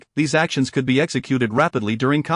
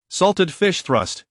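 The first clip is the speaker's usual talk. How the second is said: slow, raised call of an attack name; calling out technique; 4 semitones higher, much slower than usual. A narrator's reading. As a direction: draw out the attack name, pitched higher. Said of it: "hearing Linen call out his technique".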